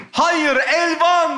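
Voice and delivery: drawn-out slow-motion line. Shown as a demonstration. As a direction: stretch every syllable slowly. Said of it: "Diyorsun ki".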